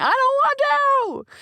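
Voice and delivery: high shrieking whine of a tantrum; temper tantrum. Retold or imitated. In her recording closet, refusing like a child in tantrum. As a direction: whine it like a furious toddler. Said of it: "throwing a temper tantrum".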